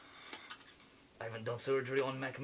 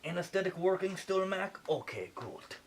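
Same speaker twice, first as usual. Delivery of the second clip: lightly put-on French accent playing a surgeon; a French surgeon narrating the operation, a hint of French accent; fake French accent. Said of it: "Sorry for the accent".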